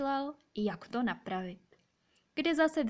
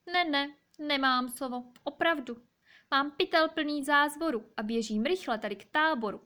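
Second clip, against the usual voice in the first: higher-pitched fox protesting innocence; lightly voiced fox, emphatic denial; 5 semitones higher, 3 dB louder than usual. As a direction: deny it as a storybook fox, pitched up a little. Fox hurriedly denies the theft.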